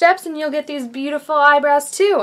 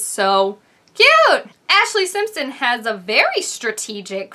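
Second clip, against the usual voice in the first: Grace Helbig. Acted. Impersonator reviews awards show looks, light YouTuber impression. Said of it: "my name's Grace Helbig".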